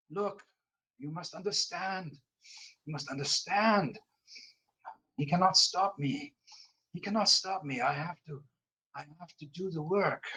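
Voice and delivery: put-on high, pleading French Canadian accent; the prisoner pleads in a French Canadian accent. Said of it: "French Canadian, uh, voice".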